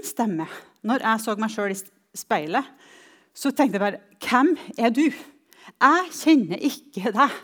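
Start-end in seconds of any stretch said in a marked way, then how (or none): 4.2-7.4 raised, emphatic challenge to oneself; louder, higher, self-disowning; self-contempt. Retold or imitated. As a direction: confront your own reflection with contempt. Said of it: "Den selvforakten".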